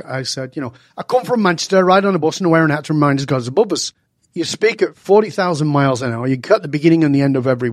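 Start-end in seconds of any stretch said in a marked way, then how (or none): 1.0-3.9 fast Manchester accent, word ends cut off and glued together. Shown as a demonstration. Showing the interviewer how he spoke back home, in Manchester accent. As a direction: rattle it off in broad Manchester accent. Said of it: "this is how I spoke".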